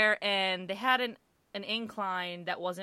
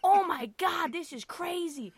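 acted shocked bystanders; 8 semitones higher than usual. Shocked shoppers react to the accusation.

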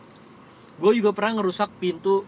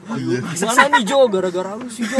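panicky friend; 4 semitones higher, 7 dB louder than usual. Retold or imitated. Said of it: "Dia udah panik".

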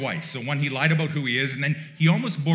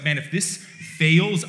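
slow, louder, half-acted dread; mock panic; 4 semitones higher, 6 dB louder, slower than usual. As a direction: voice Jacob's panic as he fears discovery. Jacob panicking before blind father.

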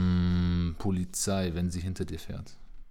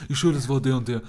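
louder, higher mock snitch blurting names; snitching rat; 5 semitones higher, 6 dB louder than usual. Teasing friend mimics a snitch, mock eager and loud. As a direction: play the eager little rat selling out friends. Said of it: "warst du so eine richtige Ratte".

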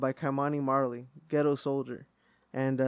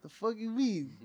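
higher, softer mock disbelief; incredulous mom; 6 semitones higher, 5 dB quieter than usual. Retelling Mom's reaction to the uncle, mock incredulous. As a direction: quote Mom's baffled challenge, pitched up.

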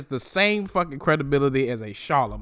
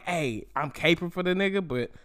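mock journalist voice; 2 semitones higher than usual. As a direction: sneer out his fake neutrality. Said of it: "as if he's like".

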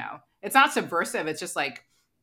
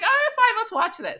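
reluctant give-in; 5 dB louder than usual. Retold or imitated. Reluctant agreement retold.

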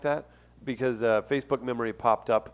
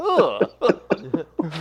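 drawn-out, higher groan of distaste; disgusted "ugh"; 3 semitones higher, 4 dB louder than usual. Real, not acted. Host reacts to the crude phrase, disgusted groan. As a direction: let out a long "ugh" that turns into laughter. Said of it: "What you oohing".

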